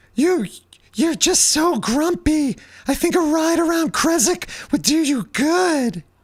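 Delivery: very high falsetto, drawn-out "good". In a role-play, one character urges a grumpy character to go for a ride, high falsetto. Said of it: "How's your falsetto?".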